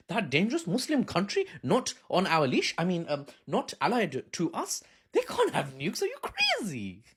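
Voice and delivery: rising into a high mock outrage; mock Western pundit. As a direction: sneer like a smug pundit, ending in a shrill squeal. Mocks Western media voice.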